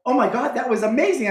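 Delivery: high, fast mock gushing; mock fawning. Whole group fawning over his cast, high mock gush.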